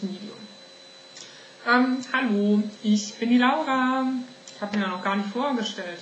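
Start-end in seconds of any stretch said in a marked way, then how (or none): 1.7-4.0 higher, louder, slow showy hello; big cheerful greeting. Acted. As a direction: announce yourself like a TV host. Redoes her introduction.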